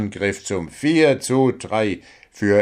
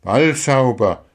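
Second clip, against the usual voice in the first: Balzauber said louder, firmly, falling; emphatic repetition; 3 semitones higher, 5 dB louder than usual. A narrator's reading. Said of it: "wiederholte Paul".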